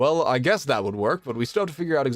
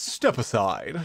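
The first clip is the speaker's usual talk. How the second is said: deep, very macho tough-guy voice; 3 semitones lower than usual. Narrating the Kenku walking up and speaking, very macho voice. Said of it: "in this sort of very macho voice goes".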